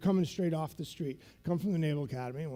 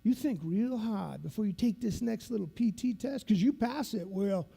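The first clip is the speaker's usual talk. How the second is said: instructor's voice; 2 semitones higher than usual. Retold or imitated. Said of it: "he talks like this".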